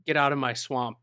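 lightly put-on Scottish accent; a touch of Scottish in a quoted movie line. Host quoting Shrek's line as kids did, light Scottish accent. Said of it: "in a Scottish accent before?".

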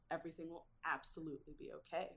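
quick, softly voiced reassurance to oneself; hushed self-talk, not a true whisper; retold self-soothing whisper. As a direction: say it softly and quickly, as if calming yourself. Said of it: "she just whispers to herself".

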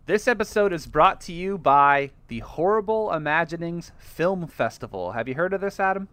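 lightly hammed ad read. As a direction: pitch the festival like a radio spot. Sponsor ad read.

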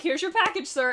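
light Scottish lilt, high; a quick imitated Scottish delivery; Scottish accent. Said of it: "In his Scottish accent".

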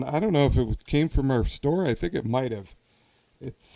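usual speaking voice

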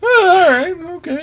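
high-pitched grudging acceptance; viewer won over. Acted. Podcaster mimicking a picky viewer giving in, high grudging voice. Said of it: "the whole time they're watching it".

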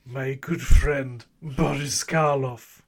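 lightly voiced spooky movie villain; Boris Karloff voice. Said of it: "that how Boris Karloff speaks".

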